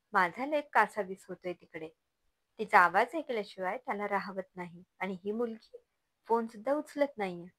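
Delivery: acted indignant mother demanding answers; angry confrontation. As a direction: press the complaint with mild, insistent anger. (जाब विचारणारी संतापलेली आई)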